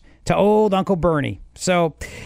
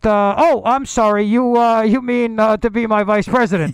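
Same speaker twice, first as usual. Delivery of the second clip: mock Bernie voice; 2 semitones higher than usual. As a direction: hedge and stumble like Bernie. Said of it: "Whenever he's gotta start with "look".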